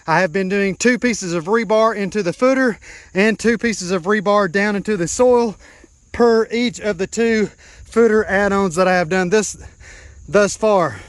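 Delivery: winded from digging; breathless after hard work; out of breath. Real, not acted. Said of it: "I am about out of breath".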